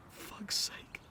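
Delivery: breathy exasperated aside; muttered under breath. Acted. Mourner annoyed at his own tears, breathy mutter. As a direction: sigh it out, half to yourself.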